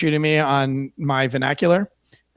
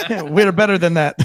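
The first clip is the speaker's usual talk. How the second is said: put-on Iraqi Arabic accent. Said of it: "Ooh, I just did an Iraqi accent".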